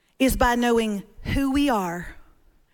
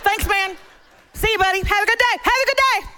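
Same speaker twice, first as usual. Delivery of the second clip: sheepish thanks; 5 semitones higher, faster than usual. Retold or imitated. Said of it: "David goes just like this".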